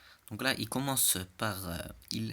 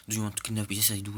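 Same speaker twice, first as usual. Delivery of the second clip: sped-up voice; 5 dB louder than usual. Pretend. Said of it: "je parle comme ça, vitesse fois quatre".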